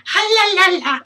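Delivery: high, loud pained yelping; shaking off the sting; burnt fingertips. Real, not acted.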